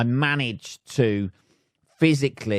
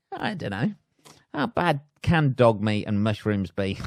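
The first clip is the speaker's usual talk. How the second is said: starving man musing. Pretend. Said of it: "at the dog going".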